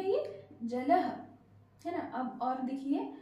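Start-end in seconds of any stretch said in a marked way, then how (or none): 0.0-1.1 जलह stretched out very slowly, ending on h; slow demo. Shown as a demonstration. Teacher slowly repeating जलह after adding visarga. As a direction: draw out जलह. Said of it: "मात्रा लगाने के बाद क्या बन गया".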